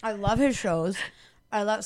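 talking with a mouth full. Real, not acted. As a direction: talk around a bite of candy. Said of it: "I'm eating a nib".

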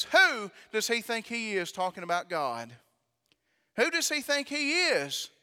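rising outraged demand; indignant challenge. Acted. Preacher voicing David, indignant and rising. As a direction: throw the question out in outrage.

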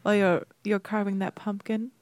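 lightly hammed-up Halloween voice; a touch of playful spooky hosting. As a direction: put on a mild Halloween voice. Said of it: "It's my Halloween voice".

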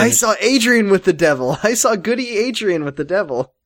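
high-pitched mock witch-trial accusation; hammed-up period-play denunciation; Crucible parody. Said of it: "talking like they're in the fucking Crucible".

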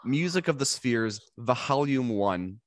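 slow, grand reveal of the title; dramatic announcement. Acted. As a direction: announce it like a trailer.

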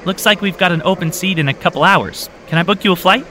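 too cheerful for the moment; overly chipper clerk. A narrator's reading. Airline clerk greets a tired traveller, overly chipper. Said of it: "in a more chipper than appreciated voice said".

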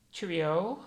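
lilting mock British farewell, rising at the end; British accent. Friend asked to try it, put-on British accent. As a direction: have a light go at a British accent. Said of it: "like, a British accent".

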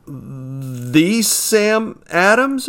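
drawn-out astonished question; stammered disbelief. A narrator's reading. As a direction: barely get the name out in shock. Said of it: "I stammered".

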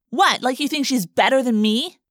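indignant demand. A narrator's reading. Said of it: "Jessica demanded".

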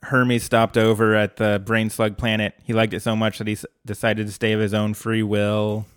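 flat robotic deadpan; droning possessed monotone. Retold or imitated. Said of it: "monotone, deadpan voice".

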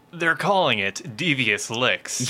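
slow, dramatic all-caps announcement voice; shouting capitalized words. Pretend. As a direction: read it like a big headline. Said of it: "what I have written in all caps ... in that voice".

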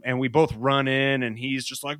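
usual speaking voice

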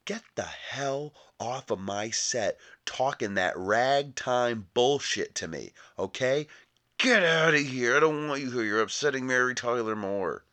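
a lightly voiced, huffy Redford shooing someone off set; Robert Redford impression. Redford throwing an actor off his set, mock indignant. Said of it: "just a spot-on impression I was doing".

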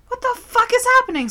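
high, quick incredulous question; retold baffled outburst; mock bewilderment. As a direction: blurt it out in exaggerated confusion. Retelling own alarm at the yelling.

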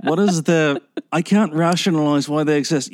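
a hint of a condescending sceptic; mock new atheist. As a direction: play a sneering new atheist puzzled by women. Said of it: "this is my impression of a new atheist".

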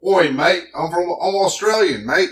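imitating a guest's thick Australian accent. Retelling an Australian interviewee to his co-host, mock Australian accent. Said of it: "he's got a thick Australian accent".

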